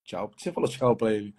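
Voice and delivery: "Tchau?" rising like a confused question; a bewildered stranger repeating "Tchau?"; puzzled questioning tchau. Retold or imitated. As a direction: echo "Tchau?" back in mild disbelief.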